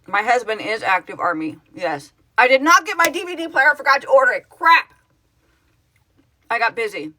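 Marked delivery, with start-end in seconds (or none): 2.4-7.1 higher, louder oh-no realization; dismayed. Real, not acted. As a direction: blurt it out in dismay. Realizes she forgot to order.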